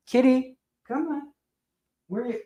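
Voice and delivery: high coaxing pet call; cat-calling voice. Real, not acted. Owner calls the cat into view, cat-calling voice.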